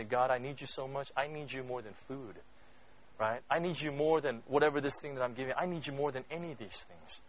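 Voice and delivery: soft, humble plea; quiet confessional prayer. Retold or imitated. Voicing a fasting prayer.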